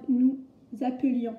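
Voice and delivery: "appelions" with "euh" after the p, no è; teacher's careful "nous... appelions", schwa in the middle. Shown as a demonstration. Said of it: "on n'entend pas de «est»".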